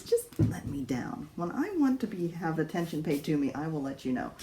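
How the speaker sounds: a lightly voiced aloof cat, starting whispered; voicing the cat. Owner speaking for her cat who wants to be put down, mildly voiced. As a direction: give the cat a haughty little voice. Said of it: "He says".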